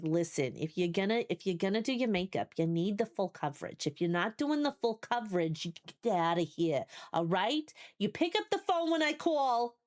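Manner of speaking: put-on lightly done Jersey mom accent, sassy and bossy; a hint of a New Jersey mom laying down the law, with attitude. Streamer imitates a Jersey mom lecturing about makeup, mild Jersey accent with attitude. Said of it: "like, attitude with the accent".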